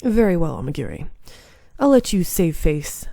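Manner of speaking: relent with icy disdain; a lightly voiced haughty demon conceding. Kazuma backs down coldly.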